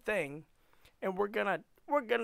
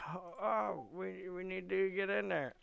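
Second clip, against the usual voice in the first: imagined eager viewers; 4 semitones higher than usual. Acted.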